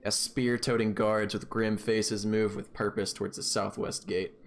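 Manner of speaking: steady scene-setting storyteller voice; game master narration. Acted. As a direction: paint the scene for the players. DM sets the scene.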